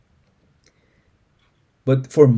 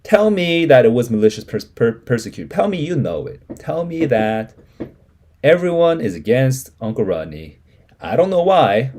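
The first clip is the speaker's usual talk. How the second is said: Mama pleading; 4 semitones higher, 6 dB louder than usual. Acted. Mama's emotional plea, later cries.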